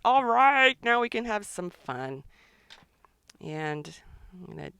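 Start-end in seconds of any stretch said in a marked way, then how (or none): 0.0-2.2 voicing Lemon Bird. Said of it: "And Lemon Bird's".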